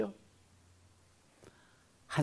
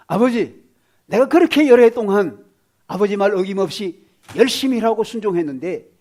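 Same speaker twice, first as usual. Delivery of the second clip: louder, bitter protest to the father; aggrieved elder son; 9 dB louder than usual. Acted. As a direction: shout out years of resentment. Elder son's angry complaint to father.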